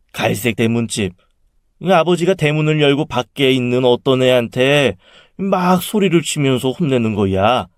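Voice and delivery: lightly voiced, puzzled aunt; aunt recounting dream. Younger sister telling her dream, lightly animated. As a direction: share an odd dream in animated chat.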